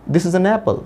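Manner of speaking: "an apple" joined as "uh-napple"; "an apple" said as one word, "a-napple"; linked pronunciation. Shown as a demonstration. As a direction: slide the n of "an" onto "apple". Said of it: "नैपल बन जाता है".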